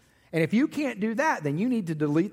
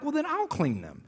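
mock offer; 8 semitones higher, 3 dB quieter than usual. Offering to clean.

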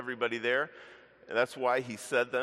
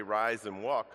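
louder, ringing order; a healer commanding; firm command; 4 dB louder, slower than usual. Shown as a demonstration. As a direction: call it out with authority. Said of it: "a lot harder to say".

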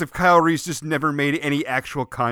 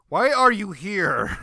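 exasperated; 6 semitones higher, slower than usual. Pretend. Mock exasperated question to aliens.

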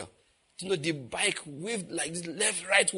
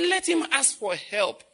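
God's slow reply; 9 semitones higher, slower than usual. Retold or imitated.

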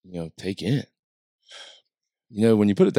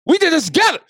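high, loud, laughing throughout; gasping lines between laughs; 8 dB louder than usual. Retold or imitated. Host mock-thanks Matt while laughing high and loud. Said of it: "host laughing".

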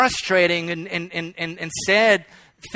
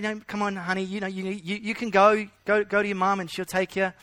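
much softer, tender reassurance; gentle coaxing; 5 dB quieter than usual. Retold or imitated. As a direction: soothe the child quietly toward his mum. Teacher coaxing again.

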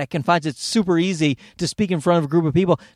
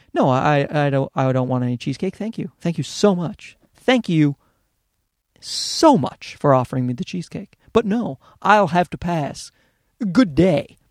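mock-courteous refusal, lightly overdone; overly polite; 3 semitones lower than usual. Refusing offered cheesecake, hammed-up politeness. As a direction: decline the cheesecake with exaggerated manners. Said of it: "That's how polite I am".

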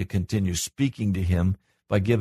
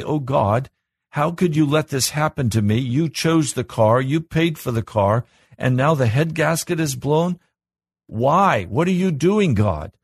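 whiny complaining prayer; 5 semitones higher than usual. Pretend. Pastor mocks a grumbling believer, complaining whine. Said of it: "I can groan and moan and complain and say".

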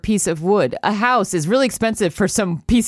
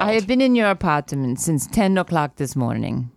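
put-on muddled Polish-Italian accent; badly faked Polish accent from everywhere at once; wandering foreign accent. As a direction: attempt Polish, land in no one country. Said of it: "it was the accent of a true citizen of the world".

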